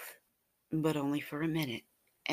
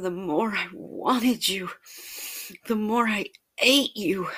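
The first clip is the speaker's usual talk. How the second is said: building arousal; 4 semitones higher, 5 dB louder than usual. Acted. Narrator climaxing while telling.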